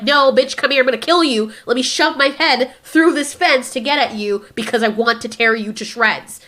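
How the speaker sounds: mock menace. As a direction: play a raptor lunging at its prey. Voicing the attacking raptor.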